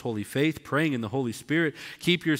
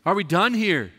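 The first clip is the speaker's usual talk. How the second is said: firm, louder, fed-up lecturing; mock a pastor who has run out of patience; exasperated scolding; 4 semitones higher, 4 dB louder than usual. Pastor losing patience with the doubter, exasperated scolding. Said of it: "hit 'em upside the head with that study Bible and go".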